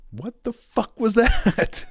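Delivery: high, slow retold disbelief; acted-out bewildered squeak; baffled. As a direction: draw it out high, utterly baffled, into a laugh. Retells his baffled reaction afterwards.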